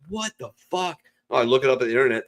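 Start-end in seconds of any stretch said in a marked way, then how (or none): 0.1-1.0 high startled what the fuck; mock shocked. Man finding welts, high disbelief. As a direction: squeak it in disbelief. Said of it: "And I'm like".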